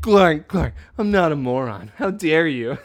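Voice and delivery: loud, hammed-up offended protest; mock outrage. Cyrus scolding Clark, in loud mock outrage. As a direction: play wounded pride big.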